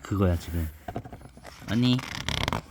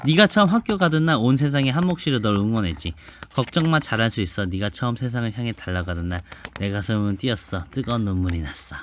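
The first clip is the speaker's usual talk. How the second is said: put-on reading to a child; 3 semitones lower than usual. Mother reads picture book aloud.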